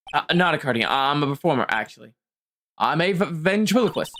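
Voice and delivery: low, halting, nervous mumble; lightly voiced jittery ventriloquist; nervous stammering man. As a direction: stammer it out like a shy performer. Voicing nervous Ben.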